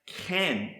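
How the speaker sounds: ken said as one short-vowel syllable, KEN; Hebrew pronunciation. Shown as a demonstration. Teacher introducing a Hebrew word, ken pronounced KEN. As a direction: say "ken" as KEN, set apart. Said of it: "is pronounced".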